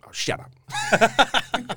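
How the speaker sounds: high, very slow, laughing "shut up" from a doubting mum; mum's laughing disbelief. Retold or imitated. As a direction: drag it out laughing, as his mum who won't believe him. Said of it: "And she's like".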